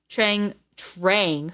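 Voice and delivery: Trang said slowly with a nasal ang; puzzled try at Trang; sounding out a name. Shown as a demonstration. Reader stumbling over the name in the book, puzzled. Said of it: "Who the fuck names their kid Trang".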